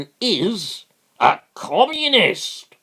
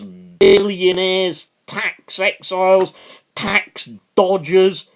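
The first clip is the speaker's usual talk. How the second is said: louder, pitched-up outrage; angry rant; 4 semitones higher, 4 dB louder than usual. Real, not acted. Railing at bankers and tax dodgers to viewers, angry and louder. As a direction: hammer home each line, slowing on the big ones. Passionate rant against corporate state.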